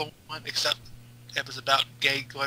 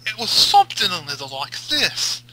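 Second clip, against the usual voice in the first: fake British accent; 3 semitones higher, 4 dB louder than usual. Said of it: "Ken, can you emulate that for us?".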